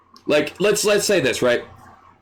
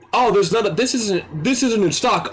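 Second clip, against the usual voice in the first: lightly voiced higher customer; mock customer complaint; complaining customer; 5 semitones higher than usual. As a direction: pitch it up as a customer querying stock. Acted customer complaining about stock.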